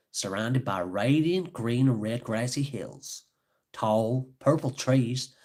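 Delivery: lilting, put-on Scottish storytelling; Scottish accent. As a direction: read it out in a bold Scottish accent. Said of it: "maybe I should read in a Scottish accent".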